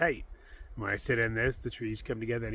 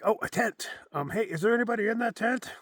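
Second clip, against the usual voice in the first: imitating a curious passerby; 11 semitones higher, 6 dB louder than usual. Hiker imitates passerby spotting tent.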